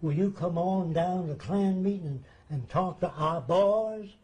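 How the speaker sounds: put-on southern accent. Klan leader inviting him to a meeting, in a light Southern accent. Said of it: "he said in his southern accent".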